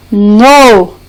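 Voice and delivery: "no" set apart as the stressed syllable; single out "no" as one held beat; stressed syllable alone. Shown as a demonstration. Teacher isolating the last syllable of dominó, stressed syllable alone. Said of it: "na sílaba tônica dessas palavras".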